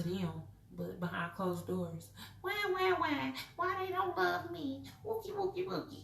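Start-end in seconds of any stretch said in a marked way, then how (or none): 2.4-6.0 higher, whiny fake sobbing; hammed-up boohoo whimper; mock crying. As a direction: ham up a crybaby wail. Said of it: "I'm being kinda sarcastic".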